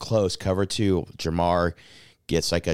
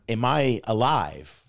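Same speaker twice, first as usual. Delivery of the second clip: stunned disbelief; 6 semitones higher, 4 dB louder, slower than usual. Retold or imitated. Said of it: "I'm really like".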